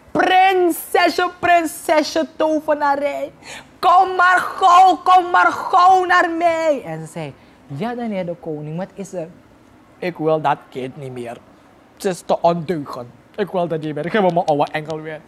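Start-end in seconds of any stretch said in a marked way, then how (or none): 0.1-6.8 calling the sorceress. Acted. King summons sorceress again. 7.7-9.3 sorceress answering. Acted. 10.0-15.2 king giving up. Acted. King pleads, voice low.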